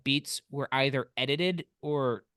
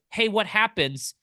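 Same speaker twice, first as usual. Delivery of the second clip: slightly raised, slow mock query; loud moviegoer; 5 semitones higher than usual. Imitating the guy asking beside him, mildly loud and slow. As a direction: imitate someone talking too freely mid-film. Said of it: "the guy very loudly next to me goes".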